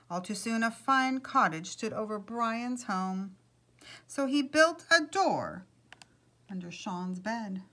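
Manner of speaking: animated read-aloud storytelling; storyteller's lilting delivery; story narration. A narrator's reading. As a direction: read a picture book aloud with measured pauses.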